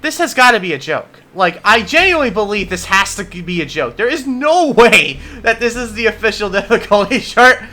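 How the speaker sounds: trying not to laugh while talking; laughter breaking through the words. Real, not acted. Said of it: "I am trying so hard not to laugh".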